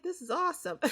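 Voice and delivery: put-on high, loud kid's excitement; excited kid. Kid amazed at museum.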